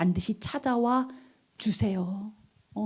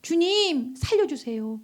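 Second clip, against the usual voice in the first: mild acted plea to the Lord; pleading cry. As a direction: imitate crying out in prayer, without full force. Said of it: "소리치는 거예요". (주님께 호소하는 기도 흉내)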